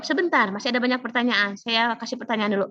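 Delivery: a hint of a firm examiner; examiner cutting in. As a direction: examiner delaying the student's answer, mildly firm. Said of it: "lihat intonasinya".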